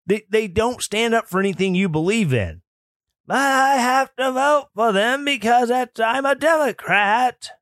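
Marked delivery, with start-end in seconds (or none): 3.3-7.5 put-on indignant elderly woman, half shouting; old lady voice. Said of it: "My old lady voice is on point tonight".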